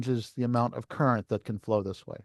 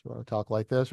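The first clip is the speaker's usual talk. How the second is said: a bit louder; 2 semitones lower, 4 dB quieter than usual. Shown as a demonstration. Teacher stepping up volume for the class, slightly louder. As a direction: middle take, a touch louder than the soft one. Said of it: "it's supposed to get proportionally louder".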